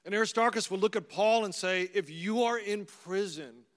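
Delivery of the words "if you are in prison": slow, sincere promise in a changed voice; slow earnest vow. Acted. Aristarchus pledges loyalty to Paul, slow and earnest. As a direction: draw each word out like a solemn pledge.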